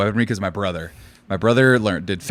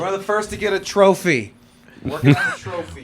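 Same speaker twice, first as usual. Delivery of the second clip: put-on old Jewish man accent, high-pitched; sing-song old Jewish accent; 7 semitones higher than usual. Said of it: "in the old Jewish wo-, accent".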